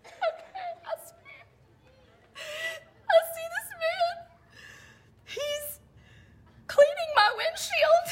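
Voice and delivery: high, squeaky, tearful laughter; words squeezed out through sobs of laughter; crying with laughter. Real, not acted. Teller to her viewers, crying with laughter. Laughing so hard she cries.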